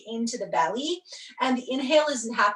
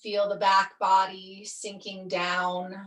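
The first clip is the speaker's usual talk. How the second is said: guided meditation; 2 semitones lower than usual. Real, not acted. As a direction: ease them down, leaving long pauses. Settles students into yoga nidra.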